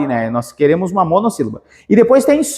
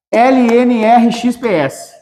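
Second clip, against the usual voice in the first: slow letter by letter; 3 semitones higher, slower than usual. Shown as a demonstration. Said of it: "teacher spells letters".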